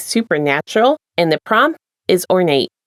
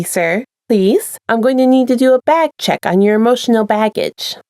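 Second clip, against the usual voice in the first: steady storyteller reading aloud; story narration; 2 semitones lower than usual. A narrator's reading. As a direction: read it like an audiobook chapter. Reads a fanfic aloud.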